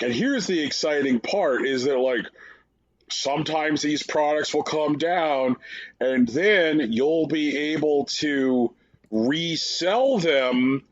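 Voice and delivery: slow, stretched-out parody reveal; mock presenter pitch. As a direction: savour each selling point mockingly. Imitating presenters announcing resale scheme.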